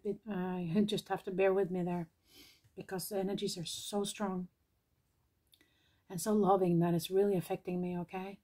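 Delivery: after crying. Real, not acted. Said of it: "teary-eyed".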